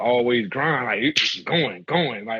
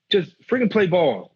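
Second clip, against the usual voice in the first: exasperated coach; 5 semitones higher than usual. Retold or imitated. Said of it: "like that".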